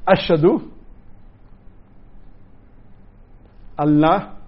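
each word slow and separate, long pauses; slowly. Shown as a demonstration. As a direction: recite word by word for repeating. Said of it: "I will say it slowly".

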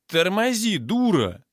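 high, urgent shout to stop. A narrator's reading. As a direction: yell at her, pitch dropping on the insult. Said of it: "закричал подскочивший дружок амбала". (кричит высоко, пытаясь остановить)

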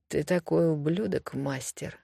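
soft whisper into the phone. Acted. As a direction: hush it, fading to a whisper. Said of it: "шепчет в трубку Аманда".

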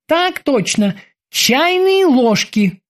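high, eager sailor's voice; squeaky dutiful boatswain. Acted. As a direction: report to the captain like a keen young sailor. Boatswain Kiki reports.

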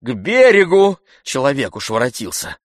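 loud repeated command; insistent call. A narrator's reading. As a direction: urge the boatman back, insisting. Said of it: "твердил Обломов".

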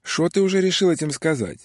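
put-on high, merry Odessa accent; cheerful Odessa Russian. A narrator's reading. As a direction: banter like a cocky Odessa local. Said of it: "весело откликнулся человек на одесском русском".

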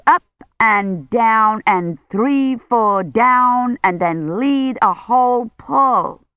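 high, instructive lady's voice; bossy bell teacher. Acted. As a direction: correct the ringer like a strict teacher. Miss Taylor calls the changes.

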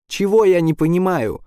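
high furious shout at Caplin; angry yell. A narrator's reading. Quinn screams at Caplin, furious high yell. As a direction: Quinn yells his outrage. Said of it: "орёт Куин".

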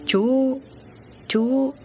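high-pitched, halting startled address; taken aback, voice jumping up. A narrator's reading. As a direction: blurt it high, then break off. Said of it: "phun ra vì giật mình".

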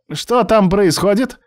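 high, slow anxious machine voice; a computer calling out through laptop speakers; panicky computer professor. A narrator's reading.

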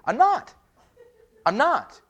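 laughing it off; mock defensive; quick denial. Real, not acted. Jokey denial after movie quote.

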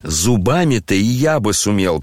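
ordinary delivery, nothing marked

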